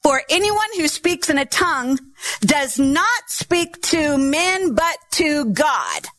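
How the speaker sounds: slow, deliberate scripture reading. Shown as a demonstration. Preacher reads First Corinthians to the church, slow and deliberate. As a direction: read the verse slowly, weighing each word. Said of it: "verse two".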